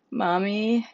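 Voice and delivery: crying. Acted. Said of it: "Hannah cried. She sounded like a baby".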